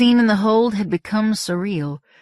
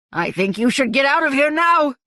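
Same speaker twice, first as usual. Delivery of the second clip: yelled; 7 semitones higher than usual. A narrator's reading. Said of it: "Malingo yelled to Candy".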